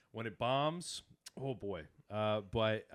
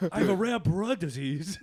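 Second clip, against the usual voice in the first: mock Asian accent; 6 semitones higher, 7 dB louder than usual. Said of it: "doing an Asian voice".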